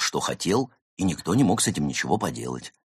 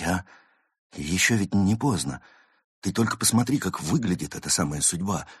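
trembling voice; 3 dB quieter than usual. Acted. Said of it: "дрожащим голосом произнёс".

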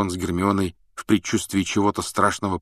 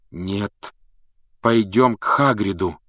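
firm; 3 dB louder, slower than usual. Acted. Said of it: "твёрдо решил Гарри".

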